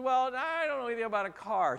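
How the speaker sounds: high, loud wife voice; preacher voicing his wife about the car, high and loud. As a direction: she answers firmly. Wife's reply voiced.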